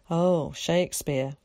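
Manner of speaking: slow weary groan of the name. Acted. Carrie groaning at Zack's mention of Shakespeare, slow. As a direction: drag it out, bored already. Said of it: "groaned Carrie".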